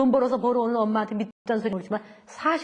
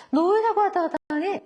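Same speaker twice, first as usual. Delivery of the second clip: irritated question; 7 semitones higher than usual. Retold or imitated. Father asks again, irritated.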